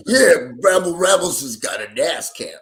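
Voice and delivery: loud, excited announcement of Bramble Ramblemonson; with passion. Shown as a demonstration. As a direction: sell the name with real passion. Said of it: "Yeah, that's better. I like it when it's like, passion".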